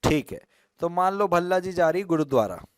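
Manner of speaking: ordinary talk, nothing marked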